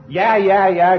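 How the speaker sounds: loud high wailing yeah; child howling in a tantrum; tantrum whine. Retold or imitated. Child throws tantrum at Mama, loud high whine.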